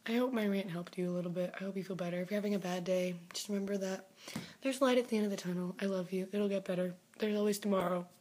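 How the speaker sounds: low, soft, tender reassurance; low and soft comfort to a fan having a bad day; gentle comfort. Real, not acted. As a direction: soothe them quietly before signing off. Comforting sign-off to fans.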